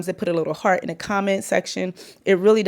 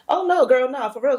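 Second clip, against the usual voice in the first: put-on higher girlfriend-talk, dropping the work act; code-switching to casual; 5 semitones higher than usual. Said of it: "And then I'm like".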